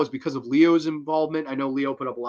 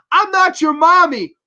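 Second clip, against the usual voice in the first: high, loud shouted rejection; furious retort; 11 dB louder than usual. Retold or imitated. Mother rejecting Esther in the ice, loud furious shout. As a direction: yell it with all your rage.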